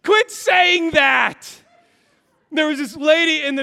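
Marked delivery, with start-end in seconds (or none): 0.0-1.6 high, loud, slow exasperated begging; embarrassed dad pleading; frantic plea. Retold or imitated. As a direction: beg him to stop in a panic. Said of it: "And I'm like".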